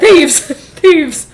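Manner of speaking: high, loud cry of "Thieves!"; alarmed shout. Retold or imitated. Woken man shouting for help at intruders. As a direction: yell the alarm through a laugh. Retold guy raising alarm.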